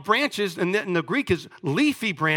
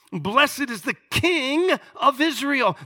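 proclaiming; 6 semitones higher, slower than usual. Acted. Preacher proclaiming the crowd's cry.

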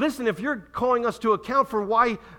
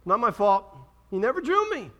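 lazy excuse; 3 semitones higher than usual. Retold or imitated. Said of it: "sit back on your haunches and say".

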